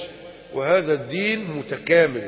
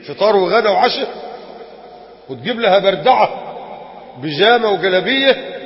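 indignant; 3 semitones higher, 5 dB louder than usual. Real, not acted. Mocking father's treatment of daughter.

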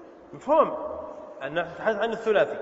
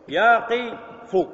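drawn-out drill word; 3 dB louder, much slower than usual. Shown as a demonstration. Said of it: "teacher drilling verb forms".

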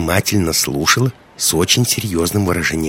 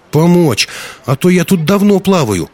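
put-on little girl's much higher, louder plaintive voice; ruefully complaining girl; 11 semitones higher, 5 dB louder than usual. A narrator's reading. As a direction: complain like a worn-out small child. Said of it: "сокрушённо пожаловалась девочка". (сокрушённо, детским голосом)

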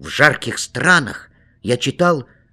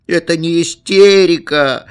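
higher, louder tearful protest; crying louder; 7 semitones higher, 7 dB louder than usual. A narrator's reading. Boy protests through tears to his father, higher and louder. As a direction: cry it out in protest. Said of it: "заплакал я ещё громче".

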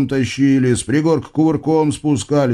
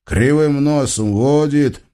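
ordinary delivery, nothing marked

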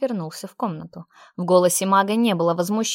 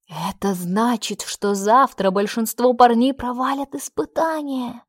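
usual speaking voice

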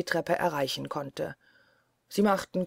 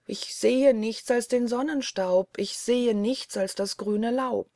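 Ännchen; 5 semitones higher than usual. Acted. Ännchen answers from tower.

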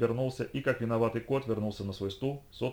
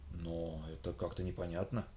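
confused; 5 semitones lower, 10 dB quieter than usual. Acted. Bewildered agent.

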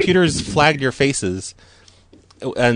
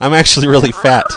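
louder joking confession; loud blurt; 2 semitones higher, 6 dB louder, faster than usual. Real, not acted. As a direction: blurt it out loudly.

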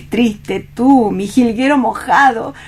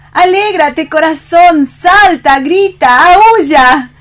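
building louder with each word; exultant urging; 3 semitones higher, 5 dB louder, slower than usual. Acted. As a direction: cheer him on, louder every command. Anima a su cachorro, exultante. (animando, cada vez más fuerte)

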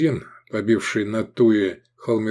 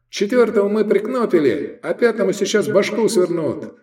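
high, raised shout; pitched-up, carrying voice; calling out; 11 semitones higher than usual. A narrator's reading. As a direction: report back across the hall. Attackers calling across the hall.

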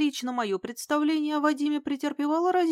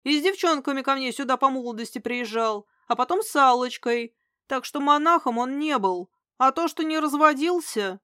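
heated rant; 3 semitones higher, 4 dB louder than usual. Acted. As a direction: keep it raised and louder, still fuming. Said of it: "взорвался он". (горячо, возмущённо, на повышенных тонах)

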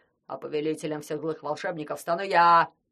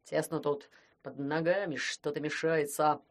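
grumbling; 4 semitones lower than usual. Acted. Koschei grumbles about the tight mortar. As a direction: complain about the cramped mortar. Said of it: "проворчал он".

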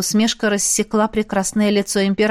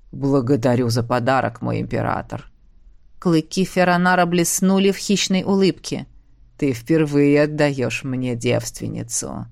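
predatory monster; 6 semitones lower than usual. Acted. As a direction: relish the gift like a predator, low. Monster Feronar speaks.

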